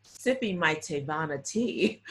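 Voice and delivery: laughing through a quoted line; amused imitation of Oprah; imitating Oprah, laughing. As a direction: retell her words while cracking up. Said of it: "this is hilarious the way she said it".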